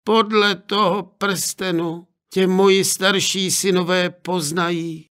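a mother handing over a ring; lightly voiced mother, tender; mother at farewell.

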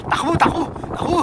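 urgent shouted calls to run; calling out to run. Real, not acted. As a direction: yell at them to run, fast. (sigaw na nagmamadali)

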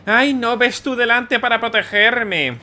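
slow, high whiny mimicry of Amelie; mocking girl voice. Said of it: "Claro, díselo al otro".

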